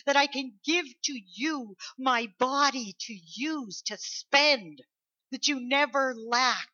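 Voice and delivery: emphatic, drawn-out preaching delivery; excited Jesus. Acted. Preacher voicing Jesus in the upper room, eager. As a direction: stretch out the key words with longing. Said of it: "That's what Jesus was doing".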